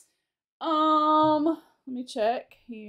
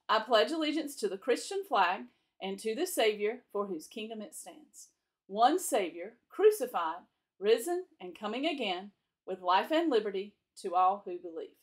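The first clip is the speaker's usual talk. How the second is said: steady classroom recitation, one phrase at a time; pledge recital; 2 semitones lower than usual. Acted. Teacher leading the class in the flag pledge, measured recitation. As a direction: lead the children through the pledge.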